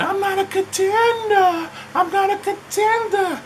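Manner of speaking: high, whining imitation of Vicky; high whiny Vicky. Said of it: "Vicky like".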